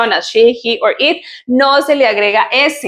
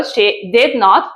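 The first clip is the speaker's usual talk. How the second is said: slow separated form; slower than usual. Shown as a demonstration. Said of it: "si quiero decirlo separadito".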